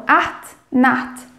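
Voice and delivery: acht and Nacht with the same throaty ch; teaching pronunciation. Shown as a demonstration. Teacher links acht to Nacht to help pronunciation. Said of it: "como Nacht".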